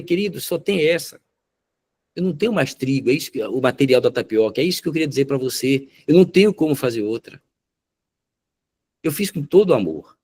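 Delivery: imitated wife, mildly tearful; retold tearful pleading. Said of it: "Ela chorando disse".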